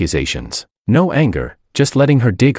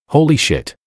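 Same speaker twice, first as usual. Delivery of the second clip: shocked exclaim; 8 semitones higher than usual. A narrator's reading. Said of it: "couldn't help but exclaim".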